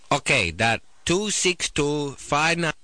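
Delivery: lightly voiced phone order taker, slowed right down; slow, careful mock read-back; imitated order taker. Order taker reading number back wrong.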